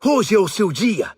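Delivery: high, urgent character voice; eager calling. A narrator's reading. Followers summon the blind beggar, high and eager. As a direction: urge him up, pitched high.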